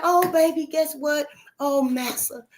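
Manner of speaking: playing the thrilled wife, voice up high; excited. Master's wife telling her husband the news, high mock excitement. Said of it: "She was so excited".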